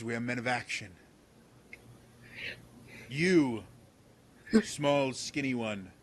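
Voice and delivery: lightly voiced pompous guard; pompous Percival. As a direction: declaim like a self-important knight.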